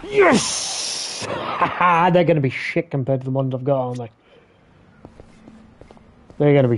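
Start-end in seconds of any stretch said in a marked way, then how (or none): 0.0-1.3 high joyful yelp. Real, not acted. New record in game.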